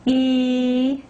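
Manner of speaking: E as a long ee carried on the out-breath; long E on exhale. Shown as a demonstration. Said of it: "breathing and exhaling".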